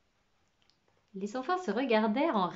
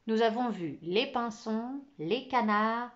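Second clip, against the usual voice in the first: sans conviction; slower than usual. Acted. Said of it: "continua Marc sans conviction".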